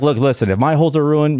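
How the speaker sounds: ordinary delivery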